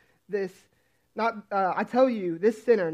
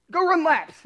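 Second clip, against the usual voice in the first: angry coach order; 8 semitones higher, 6 dB louder, slower than usual. Retold or imitated.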